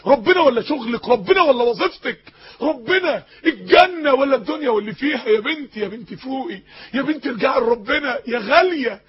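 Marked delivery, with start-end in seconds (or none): 2.6-7.6 crying through the question; tearful plea. Real, not acted. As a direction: voice breaking with tears on ربنا. Emotional plea, crying heard.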